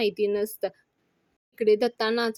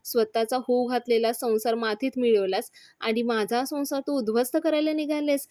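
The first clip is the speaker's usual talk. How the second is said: mother scolding. Retold or imitated. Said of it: "तिची आई तिला ओरडते".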